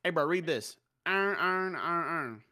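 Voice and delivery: imitating a video. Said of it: "that video where it's like".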